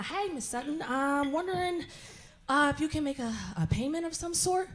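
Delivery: soft, timid caller voice; a meek collector asking for payment; mock bill collector. Bill collector calls Miss Sutton, soft and timid.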